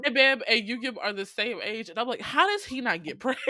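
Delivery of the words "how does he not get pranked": breaking into laughter mid-question; laughing disbelief. Real, not acted. Fan marvels at who escapes the pranks, laughing. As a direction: ask it as the giggles take over.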